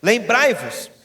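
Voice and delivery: loud, rising sermon delivery of scripture; preaching at full force. Acted. Pastor proclaiming Second Corinthians to the congregation, loud and rising.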